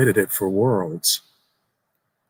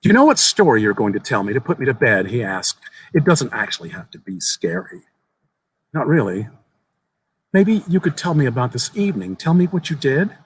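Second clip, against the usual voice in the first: a hint of a small earnest boy, raised pitch; lightly voiced young boy; 2 semitones higher than usual. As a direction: tell it like an eager child sharing a secret. Boy asks for story.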